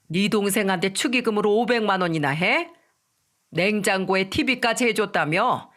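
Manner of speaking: mildly angry accusation; angry scolding. Acted. Mother-in-law confronting her daughter-in-law over wedding money, angrily. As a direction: scold with a touch of anger. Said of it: "손가락질을 하면서 화를 내며 말했죠".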